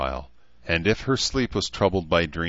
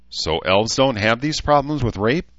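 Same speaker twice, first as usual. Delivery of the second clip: higher questioning lift, reluctant interest; reluctantly interested; 6 semitones higher, 5 dB louder than usual. A narrator's reading. Human woman questioning the elf, reluctantly interested. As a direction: ask with a touch of unwilling curiosity. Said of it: "interested in spite of herself".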